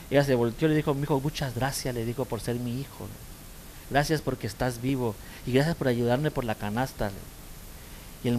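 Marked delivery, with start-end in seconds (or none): 1.0-1.9 tender thanks. Retold or imitated. Mother thanks her son gently. 2.2-7.1 tender thanks. Retold or imitated. Mother thanks her son gently.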